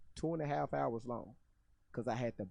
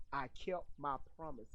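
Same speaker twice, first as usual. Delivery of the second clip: hushed mock quote; 8 dB quieter than usual. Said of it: "she told the angels".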